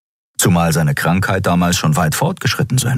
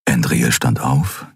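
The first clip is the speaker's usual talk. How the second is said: ordinary delivery, nothing marked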